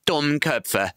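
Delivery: high, scolding cry; exasperated shout. A narrator's reading. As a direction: scold the fools in despair. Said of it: "rief Benjamin". (hoher, verzweifelter Schimpfruf)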